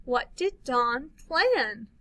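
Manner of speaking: slow, wondering question; questioning read. Shown as a demonstration. Teacher modeling a question, slow and wondering. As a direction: ask it like you don't know.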